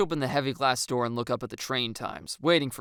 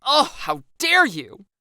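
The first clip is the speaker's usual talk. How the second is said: hammed-up loud wail, higher and slow; mock wail; 13 semitones higher, 10 dB louder, slower than usual. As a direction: wail it like a soap-opera heroine. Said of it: "I wail".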